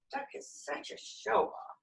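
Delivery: high, soft whisper; whispered thought. Acted. Pigs privately grumbling about Duck, high whisper. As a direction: whisper it like a jealous secret.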